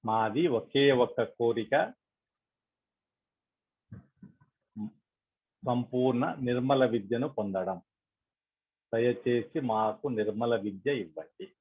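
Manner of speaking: slow, measured prayer with long pauses; prayerful request, spaced out phrase by phrase; meditation prayer. Acted. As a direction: lead the group gently in an unhurried plea.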